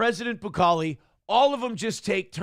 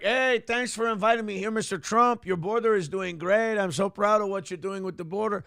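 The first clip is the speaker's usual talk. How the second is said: hammed-up Latin American president; mock Latino accent; 3 semitones higher than usual. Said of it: "that accent is very racist".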